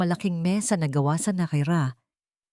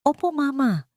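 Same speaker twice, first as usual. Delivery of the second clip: trying to sound calm; 8 semitones higher than usual. A narrator's reading. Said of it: "Sinisikap na panatilihing kalmado".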